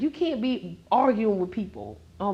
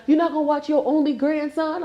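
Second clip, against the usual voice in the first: mock guilt-trip; 5 semitones higher than usual. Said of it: "Try to make me feel bad".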